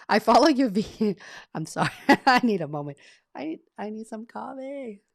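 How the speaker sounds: breaking into real laughter mid-word; can't get the words out for laughing; giggling through an apology. Real, not acted. Cracks up mid-sentence on stream.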